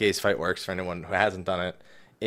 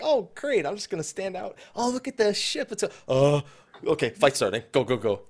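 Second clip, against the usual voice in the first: clueless player voice; 7 semitones higher than usual. Retold or imitated. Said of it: "everyone's like".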